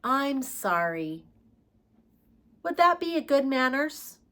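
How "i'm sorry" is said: modelled apology. Shown as a demonstration. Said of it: "What could you say?".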